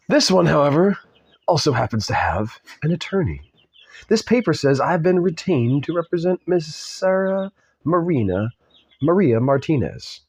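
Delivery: put-on measured, amateur British accent. Lawyer explaining he has been retained, put-on British accent. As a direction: put on a formal British voice, lingering on the name. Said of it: "spoke with a British accent".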